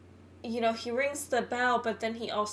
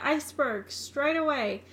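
shouting from crow's nest; 4 semitones higher, 3 dB louder than usual. Retold or imitated. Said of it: "he's like".

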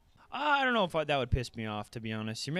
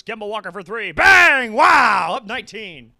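shouted, much higher bang call; announcer's big call; 8 semitones higher, 16 dB louder than usual. Pretend. Fan imitating the TV announcer, shouted call of the three.

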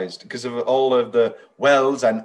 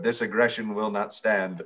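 lightly voiced stern statesman quote; a hint of a politician's statement, in the usual low register; George Bush Senior; 3 semitones lower, 3 dB quieter than usual. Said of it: "watching George Bush Senior".

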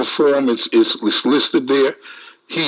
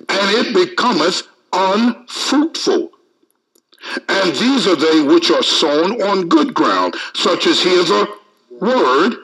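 raised, emphatic Bible reading; preacher reading a verse out, pitched up; scripture reading; 5 semitones higher than usual. Acted. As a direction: build through the list to the key word. Reads scripture aloud to congregation.

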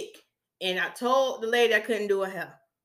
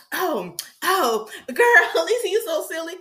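higher-pitched amused client; playful, raised-pitch retold reaction; client laughing it off; 5 semitones higher, 4 dB louder than usual. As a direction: imitate a client brushing it off as a joke.

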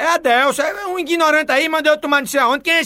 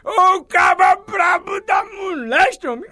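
drawn-out exclamation, pitched up; mock amazement; 4 semitones higher, slower than usual. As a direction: slowly holler in comic astonishment. Host exclaims after furious hang-up.

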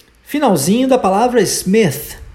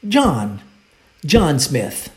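model for repetition; 5 semitones lower, much slower than usual. Shown as a demonstration. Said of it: "Let's repeat".

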